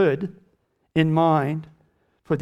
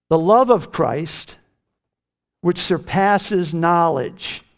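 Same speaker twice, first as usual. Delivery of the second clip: slow emphatic reading; 2 semitones higher, 3 dB louder, slower than usual. Acted. Preacher slows on key verse.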